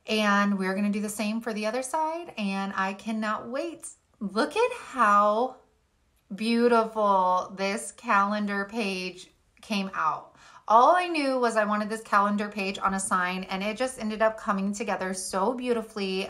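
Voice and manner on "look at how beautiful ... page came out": admiring. Real, not acted. Admiring the finished page.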